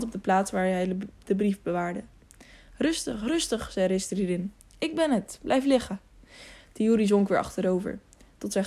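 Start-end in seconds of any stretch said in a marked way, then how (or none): 2.8-3.7 higher, gently hushed reassurance; calm someone who has woken in alarm; soothing. A narrator's reading. Ristridin settles the wounded Tiuri, soothing. Knight calms wounded, startled boy. 4.8-6.0 light, lifted, gentle voice; reassuring. A narrator's reading. Ristridin makes himself known to wounded Tiuri, reassuring. Knight calms wounded, startled boy.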